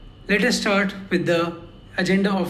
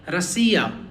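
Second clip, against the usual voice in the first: "rasiya" with a long stressed "si", light first and last vowels. Shown as a demonstration. Teacher showing learners the stress, middle syllable stressed in "rasiya". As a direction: lean on "si" in "rasiya". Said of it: "E is the stressed one".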